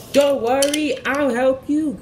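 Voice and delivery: high, loud reassuring call; heroic call. Acted. Thomas rushing to help Rosie, high loud heroic call. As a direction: call out bravely as you rush in. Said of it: "cried Thomas".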